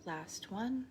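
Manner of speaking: unhurried meditation guide with long pauses; guided meditation. Real, not acted. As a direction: lead them gently through each breath, leaving space. Leads breathing and body scan.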